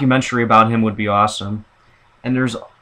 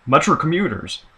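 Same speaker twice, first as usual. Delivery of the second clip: lightly imitated transit announcer; a hint of a recorded platform announcement; male train announcer; 2 semitones higher than usual. Imitating the Metra guy's good voice, lightly voiced announcer. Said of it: "and his voice is".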